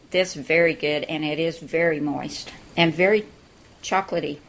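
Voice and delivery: talking through a mouthful of bread; chewing while speaking, mouth full. Real, not acted. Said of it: "Sorry for talking with my mouth full".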